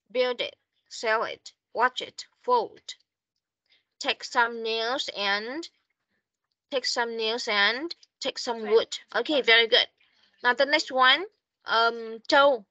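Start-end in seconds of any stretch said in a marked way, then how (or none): 4.0-5.6 "Take some nails and" read slowly, word by word; slow model reading. Shown as a demonstration. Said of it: "Nối từ vào". 6.7-8.9 "take some nails and take some wood" in normal flow, words linked; now say it smoothly, linked up; linked reading. Shown as a demonstration. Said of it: "Nối từ vào".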